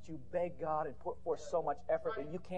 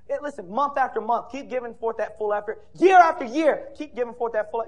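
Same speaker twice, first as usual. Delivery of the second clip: forceful preaching; 5 semitones higher, 10 dB louder than usual. Real, not acted.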